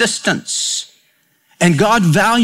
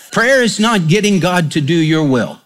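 laughing. Real, not acted. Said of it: "laughing after the joke".

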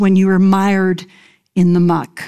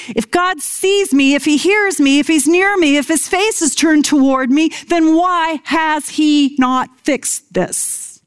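pleading question; 5 semitones higher than usual. Acted. Voicing a doubter's honest question.

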